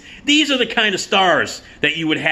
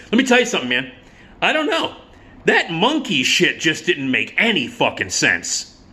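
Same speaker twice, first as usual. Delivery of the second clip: put-on high, dopey young guy voice; dude voice; 4 semitones higher than usual. Twenty-something guy at the movie shrugging off the film, dopey high voice. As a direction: mimic a clueless young dude, pitched up. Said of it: "one of the guys said".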